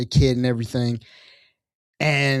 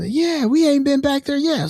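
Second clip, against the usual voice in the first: goblin reply; 13 semitones higher than usual. Retold or imitated.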